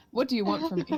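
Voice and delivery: a half-hearted in-character yell, held back; a half-yelled cry at the nightmare creature. Acted. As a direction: call it out as if yelling, but hold back. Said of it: "I'm gonna yell at him".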